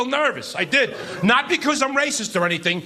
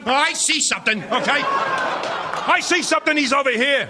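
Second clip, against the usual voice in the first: panicked report; 4 semitones higher, slower than usual. Retold or imitated. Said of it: "I'm like".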